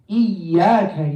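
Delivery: "Iyyaka" with the y held doubled; stressed doubled y. Shown as a demonstration. Teacher quoting the verse to students, "Iyyaka" with a held double y. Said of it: "not applying the shadda".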